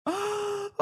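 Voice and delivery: sharp high gasp of disbelief; sudden stunned intake of breath; shocked gasp. Real, not acted. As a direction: gasp as the bet collapses. Shock at a goal.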